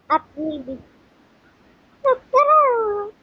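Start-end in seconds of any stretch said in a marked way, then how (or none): 2.0-3.1 high mock call. Mocking look at her.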